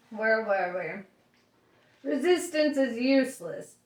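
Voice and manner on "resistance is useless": high, loud Vogon guard shout; bellowed catchphrase. A narrator's reading. Guard shouting at his captives, bellowing. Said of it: "filled his lungs and bellowed".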